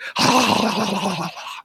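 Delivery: high, loud drawn-out gasp. Acted. Storyteller as frog's tongue flies at chick, loud gasp. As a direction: gasp in alarm, long and high.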